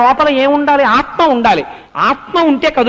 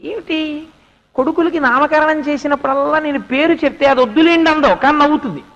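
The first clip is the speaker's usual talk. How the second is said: higher-pitched, mildly put-out wondering; baffled complaint; 4 semitones higher than usual. Acted. Slighted king wondering at his wife's laughter, baffled. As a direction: puzzle aloud over a slight.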